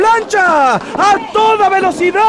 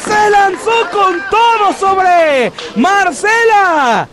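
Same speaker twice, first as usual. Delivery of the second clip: excited play-by-play. Real, not acted. Climactic dive called live.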